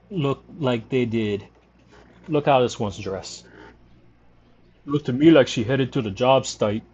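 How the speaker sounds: lightly voiced Louisiana barflies gossiping; a hint of a drawling barfly; bar regulars. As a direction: play the old drunk and his buddy swapping stories. Voices bar characters in game.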